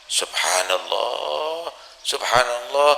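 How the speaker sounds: slow, soft, crying subhanallah; tearful exclamation. Retold or imitated. Husband realizes he was the beggar, softly crying. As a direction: break into tears of awe.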